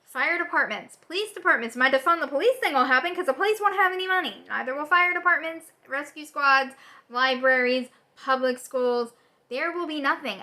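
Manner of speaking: loud, heated listing; furious ranting list; angry rant. Real, not acted. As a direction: raise your voice in real outrage, item after item. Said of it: "this is gonna be a rant because I'm angry".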